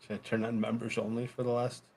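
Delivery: hushed unvoiced aside; whisper. Real, not acted. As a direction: whisper it off-mic.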